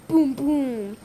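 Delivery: two mouth-made explosion thuds; play-acted booms near talking pitch; imitated small booms. Shown as a demonstration. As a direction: voice small blasts, boom by boom. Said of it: "booms and pew pews and smaller explosions".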